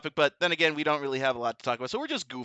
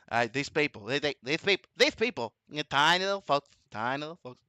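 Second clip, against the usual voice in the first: lightly voiced mock president, halting; a hint of politician impression, soft repeats; Trump; 2 semitones lower, 3 dB quieter than usual. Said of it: "How are you doing that, Trump?".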